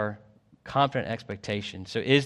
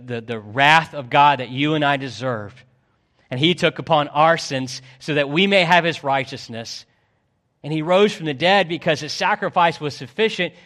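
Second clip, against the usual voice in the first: emphatic preacher, drawing out key words; impassioned preaching; 3 semitones higher, 5 dB louder than usual. Real, not acted. Preacher telling church of Christ's death and rising, impassioned preaching. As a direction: preach it with building force.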